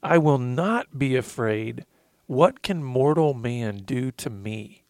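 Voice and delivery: slow heartfelt reading. Real, not acted. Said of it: "I'm gonna get emotional".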